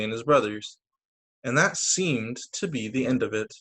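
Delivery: put-on lively storybook voice for kids; bright read-aloud narration; reading to children. Reads picture book aloud.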